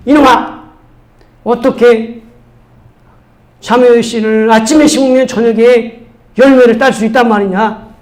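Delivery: imitated angry old-style telling-off; scolding father. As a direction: tell off a cheeky child. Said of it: "막 뭐라고 하는 거죠".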